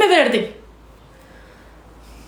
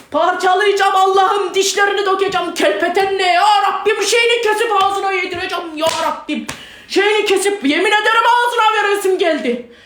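seething threats in a sustained raised pitch; furious ranting. Real, not acted. Mother threatening whoever came near her child, furious. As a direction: rant without letting up, beside yourself.

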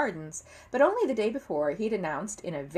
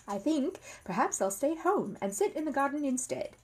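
announced; 7 semitones higher than usual. A narrator's reading. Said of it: "he announced".

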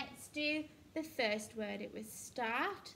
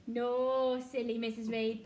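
mock self-scolding; 7 dB louder than usual. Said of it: "teacher mock-scolds herself".

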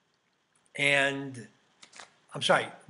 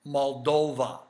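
lightly imitated low-voiced reply; a hint of a low voice, falling at the end. Server tells customer where she's from, low voice. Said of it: "in a very low voice".

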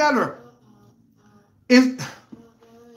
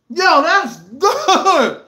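savoring; 3 semitones higher, 4 dB louder, much slower than usual. Real, not acted. Tasting food, live reaction.

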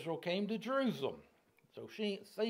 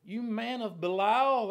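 loud, higher-pitched denunciation; cursing accuser; 6 semitones higher, 7 dB louder, slower than usual. Acted. Shimei cursing David as he flees, loud accusing shout. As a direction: hurl it as an accusation, drawn out at the end.

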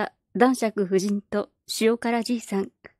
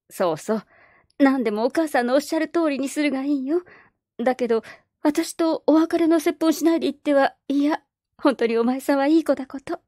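a slightly higher, sweet coaxing lady; lightly voiced baroness; 4 semitones higher than usual. Baroness tempting the orphan girl, lightly sweet coaxing. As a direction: coax her like a kindly street singer.

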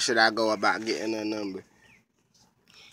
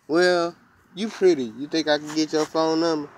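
smooth compliment; 4 semitones higher than usual. Shown as a demonstration. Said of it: "you be like".

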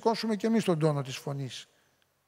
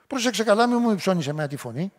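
mock warning, louder at the start; impulsive counterattack; 2 semitones higher, 4 dB louder than usual. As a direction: push back sharply, then ease off. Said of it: "Παρορμητική. Αντεπίθεση". (παρορμητική αντεπίθεση με ανεβασμένη φωνή)

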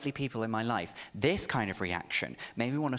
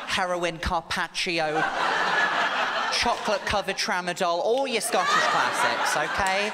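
laughing shout; 4 semitones higher, 6 dB louder than usual. Real, not acted. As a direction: bellow the punchline while cracking up. Absurd menu punchline.

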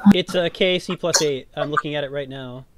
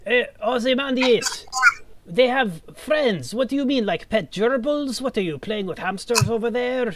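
high, slow teasing call; mocking taunt; 7 semitones higher than usual. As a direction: taunt the ally across the room. Character calls to distant ally.

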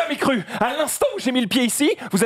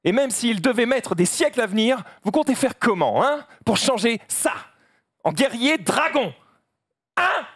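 despairing panda. Acted. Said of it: "je fais le panda".

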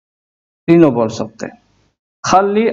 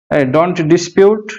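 very slow; 3 semitones higher, much slower than usual. Shown as a demonstration. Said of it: "झगड़ा मत करो".

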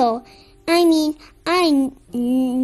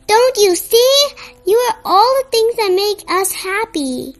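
high, louder and bursting with conviction; excited reassurance for a sad friend; eager encouragement; 4 semitones higher, 4 dB louder than usual. Acted. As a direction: make her finally see it. Gray cheers Pink up.

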